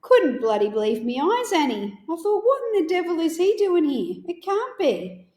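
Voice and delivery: a hint of a gruff uncle, amazed; Uncle Cecil's voice. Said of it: "exactly how he would say".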